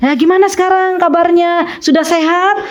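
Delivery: lilting, friendly check-in; kindly inquiry. Shown as a demonstration. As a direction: model asking after a friend's health. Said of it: "Tanya kabar".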